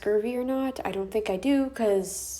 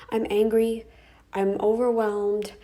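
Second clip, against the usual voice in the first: louder upset; 4 dB louder than usual. Real, not acted.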